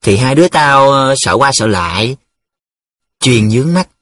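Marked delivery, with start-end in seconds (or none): 0.0-2.2 hesitant, mildly embarrassed excuse; flustered. Acted. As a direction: fumble through a face-saving answer. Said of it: "bối rối". (bối rối, ngập ngừng)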